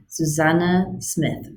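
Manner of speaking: "Susanna" with weight on the second syllable; stress on second syllable. Shown as a demonstration. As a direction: lean on the middle of "Susanna", slowly. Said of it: "I put an emphasis on the second".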